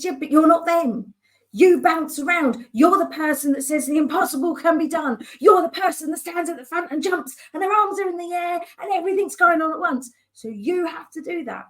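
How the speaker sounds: lightly voiced coach egging her on; a hint of an upbeat coach; coach's pep talk. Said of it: "He said".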